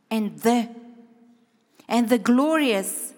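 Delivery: slow, adding one word each time; slow building repetition. Shown as a demonstration. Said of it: "melting the Bible verse in your mouth".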